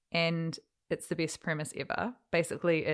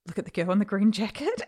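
excited whisper-shout; 4 semitones higher, 4 dB louder, faster than usual. Retold or imitated. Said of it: "and I just go".

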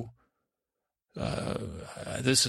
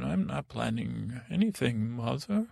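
mild rise into a higher voice; voice getting high. Acted. Son denying any plan to Mother, voice getting high. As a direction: let the pitch lift on the last word. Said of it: "My voice get very high".

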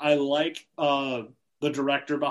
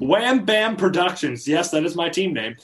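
announcer voice. Pretend. Announcing draft pick.

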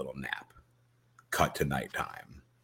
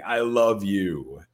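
mild mock scream; 4 semitones higher, 5 dB louder, slower than usual. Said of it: "The speaker is screaming".

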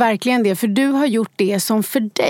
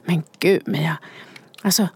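appalled concern. Retold or imitated. Friend cautioning the would-be author, appalled concern. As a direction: draw out the dreadful possibility. Acting out a worried, doubting friend.

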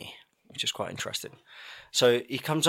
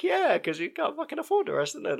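mock kid voice. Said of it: "It's just like".

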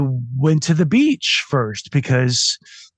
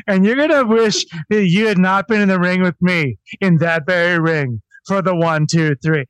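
mock promo voice; 3 semitones higher than usual. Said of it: "the promo voice is just as ridiculous".

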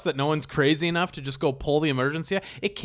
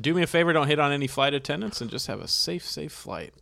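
airline captain voice. Acted. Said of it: "the pilot announcing".

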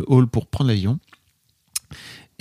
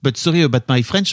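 English with an easy French accent. Shown as a demonstration. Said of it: "on a tous un accent pété". (anglais à l'accent français)

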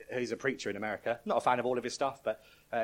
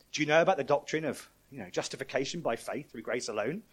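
supervisor angel; 4 semitones higher, 3 dB louder than usual. Retold or imitated. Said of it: "the supervisor angel goes".

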